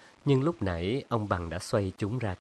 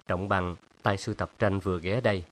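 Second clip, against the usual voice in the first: usual speaking voice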